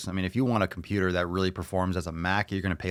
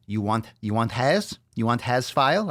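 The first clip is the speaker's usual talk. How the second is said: put-on broken-English accent; 3 semitones higher than usual. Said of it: "With that accent".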